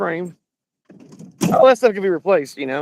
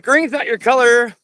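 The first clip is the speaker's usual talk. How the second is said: slow, higher mock holler; drawn-out heckle, only mildly raised; imitated holler; 5 semitones higher, 3 dB louder, slower than usual. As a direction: imitate a heckler calling out a window. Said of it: "somebody holler at the window".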